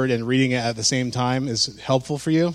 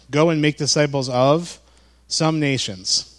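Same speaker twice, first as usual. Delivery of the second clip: slowed misreading. Pretend. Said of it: "that's an old pastor trick".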